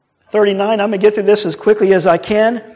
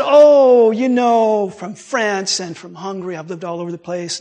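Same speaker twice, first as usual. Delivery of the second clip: retold evasiveness. Man asked where he is from, imitated evasive answer. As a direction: imitate someone casually dodging a question. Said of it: "he was being a little evasive".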